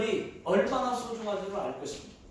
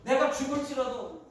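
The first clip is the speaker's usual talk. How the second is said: a loud defiant yes; defiant shout; 3 semitones higher, 4 dB louder than usual. Acted. Jonah defiantly answering God, shouting. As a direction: Jonah yelling back at God. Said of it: "라고 얘기를 했어요".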